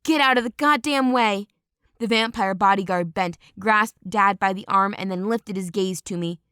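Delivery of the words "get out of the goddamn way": Chuck barking at the crowd, held back; mock scream.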